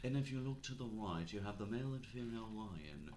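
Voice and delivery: hushed safari guide voice; nature documentary narrator. Pretend. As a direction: play a cheesy wildlife narrator. Mock nature documentary tour.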